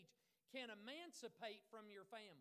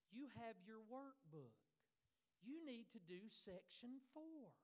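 slow, measured teacher's voice; calm and kind. Retold or imitated. Teacher instructing students, calm and kind. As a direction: say it calmly and kindly, taking your time. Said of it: "she would very calmly and kindly say".

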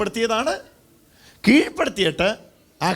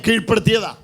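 emphatic line for the crowd to echo; loud call-out; 3 semitones higher, 3 dB louder than usual. Shown as a demonstration. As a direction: lead the congregation's response. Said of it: "ഉറക്കെ ഒന്ന് പറഞ്ഞേ".

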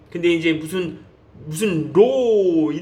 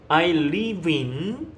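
stretched-out I live in; very slow model phrase; much slower than usual. Shown as a demonstration. Teacher builds the answer slowly for students. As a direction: say each word slowly and separately. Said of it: "model sentence slowly".

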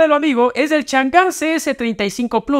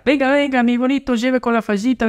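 singsong street vendor hawking wares; hyped fairground barker; 2 semitones higher than usual. Acted. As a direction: call out like a market seller. Mock market vendor sales pitch.

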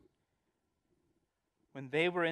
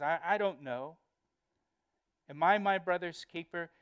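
mildly insolent acted comeback; defiant; 3 semitones higher, 3 dB louder than usual. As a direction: throw the question back with insolence. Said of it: "tone of defiance".

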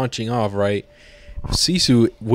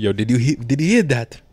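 commander's voice; 2 semitones higher than usual. Retold or imitated. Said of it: "He's like".

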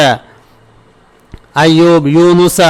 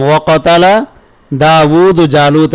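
very slow, split with a pause after কাতালা; slow phrase-by-phrase repetition; slow repeat; slower than usual. Shown as a demonstration. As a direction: spell it out for the students phrase by phrase. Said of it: "কি বললাম?".

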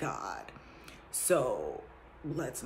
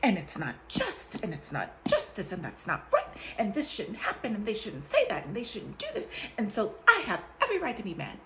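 mild mock indignation building to a laughing peak; half-laughing protest of her own unfairness; self-justifying rant; 4 semitones higher than usual. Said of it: "by saying".

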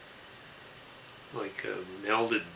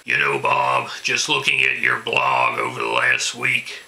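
angry ranting caller; 7 dB louder than usual. Acted. Ranting local political caller impression.

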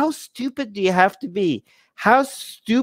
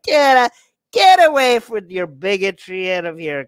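mock dismissive shout. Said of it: "I'm like".

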